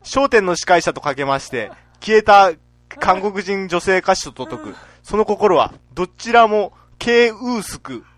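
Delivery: slow riddle punchline delivery; lightly voiced old rakugo riddle; Utamaru impression. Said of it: "歌丸です".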